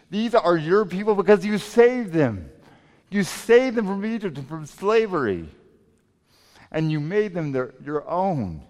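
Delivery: forceful preacher voicing Moses' argument; pressing appeal. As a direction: press the case, leaning hard on "you" and "your". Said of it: "Moses keeps the pressure up".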